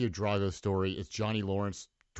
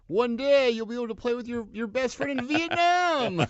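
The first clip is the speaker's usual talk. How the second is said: Cable Guy voice; 12 semitones higher, 5 dB louder than usual. Retold or imitated. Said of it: "He's like".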